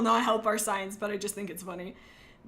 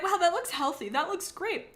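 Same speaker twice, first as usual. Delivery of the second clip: much higher, gushing fake delight; mock delight; 8 semitones higher than usual. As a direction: gush like you're fooled by it. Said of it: "And when you're like".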